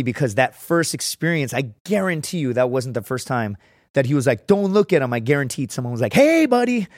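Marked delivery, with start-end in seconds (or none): 4.5-5.1 commanding warning. Retold or imitated. Imagined sergeant warning. 6.1-6.9 gruff warning. Retold or imitated. Imagined sergeant warning.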